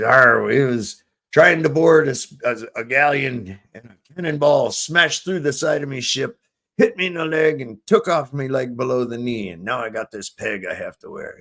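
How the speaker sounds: lightly voiced joke pirate; a hint of pirate talk. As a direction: growl the "Arr" like an old sea dog. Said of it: "are you a pirate?".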